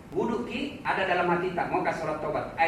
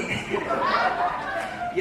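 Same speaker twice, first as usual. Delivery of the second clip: high laugh. Real, not acted. Laugh after acted confession.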